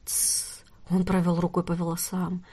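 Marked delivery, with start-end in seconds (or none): 0.0-0.5 a long soft hushing hiss; soft shush. Acted. Nort hushing the crying Lia, a soft shush. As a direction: hush her gently.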